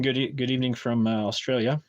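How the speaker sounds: put-on a slight, accidental Australian accent on "good evening from, uh, Australia"; slipped Australian accent. Streamer passing on a viewer's greeting, lightly in an Australian accent. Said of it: "I didn't mean to say that with an accent".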